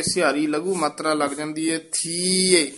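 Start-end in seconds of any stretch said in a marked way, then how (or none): 1.8-2.7 ਥੀਏ said with a short sihari sound. Shown as a demonstration. Teacher correcting pronunciation for students, short vowel in ਥੀਏ. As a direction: keep ਥੀਏ short, voice on the iri. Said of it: "ਇਸ ਤਰ੍ਹਾਂ ਉਚਾਰਨ ਕਰਨਾ ਹੈ".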